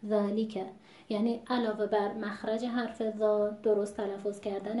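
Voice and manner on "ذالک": ذالک with long ā, full li, clear ka; every letter of ذالک fully articulated; correct word weight. Shown as a demonstration. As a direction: pronounce ذالک precisely in its natural rhythm. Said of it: "وزن کلمه".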